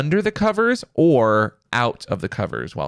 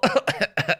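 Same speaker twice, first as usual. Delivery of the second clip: fake cough; 8 semitones higher than usual. Shown as a demonstration. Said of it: "I would pretend to cough".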